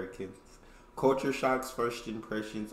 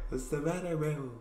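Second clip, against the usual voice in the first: Jonah-style bro; 7 semitones higher than usual. Retold or imitated. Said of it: "He sounded like, uh, Jonah".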